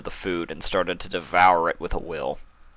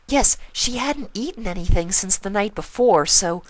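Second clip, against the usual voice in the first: shy and apologetic; Fluttershy voice; 13 semitones higher, 3 dB louder than usual. Acted.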